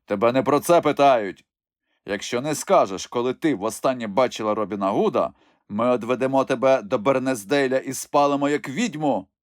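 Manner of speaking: lightly voiced stern bishop, threatening; a hint of a menacing churchman. Bishop threatens the old woman. (легко озвучений суворий єпископ)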